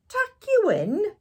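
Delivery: loud, high, slow bellow. A narrator's reading. Pirate captain bellowing at the boy who wants tucking in, loud disbelief. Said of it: "he bellowed".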